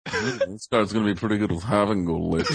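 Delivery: mildly mocking imitation of a co-host; lightly voiced pondering pundit, opening on a hum; Scotty Mac. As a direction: parrot your co-host's pet line. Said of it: "Scotty Mac goes".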